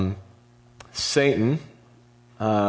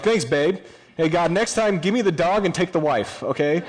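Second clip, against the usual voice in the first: mock-grateful, higher and bright with sarcasm; sarcastic retort; 7 semitones higher than usual. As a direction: throw back a dry sarcastic thanks. Job answers his wife sarcastically.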